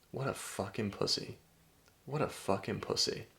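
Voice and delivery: soft, scornful mock of a wife. Wife to her snoring husband, soft contempt. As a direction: say it under her breath in contempt. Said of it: "she looks at you and she's like".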